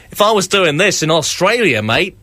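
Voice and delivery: lightly put-on Australian accent; a so-so mock Australian twang. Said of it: "that's my Australian accent".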